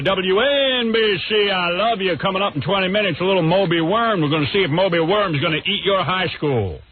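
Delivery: hammed-up radio DJ with quacking noises; Imus. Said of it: "I'll do an impression of Imus".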